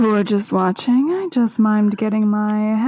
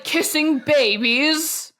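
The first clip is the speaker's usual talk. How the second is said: disdainful drawl; 5 semitones higher, much slower than usual. Retold or imitated. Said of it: "He was like".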